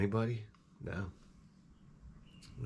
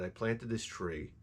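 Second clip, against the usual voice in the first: deflated; slower than usual. Retold or imitated. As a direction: set up the bad news with a sinking voice. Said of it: "It fucking died".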